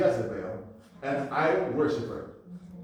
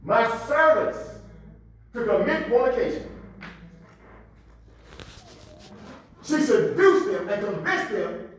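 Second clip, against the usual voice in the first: raised, punchy sermon delivery; forceful preaching; 8 semitones higher, 8 dB louder than usual. Acted. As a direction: preach it out to the congregation.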